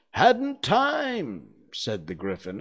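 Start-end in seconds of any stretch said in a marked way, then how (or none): 0.1-1.5 high, loud exclaimed reply; brusque excuse. A narrator's reading. Gryphon explaining why it never learned, loud retort.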